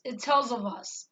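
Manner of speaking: "It tells of us" run together as one word; all one word. Shown as a demonstration. Showing how the dream words sounded, all one word. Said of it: "like it was all one word".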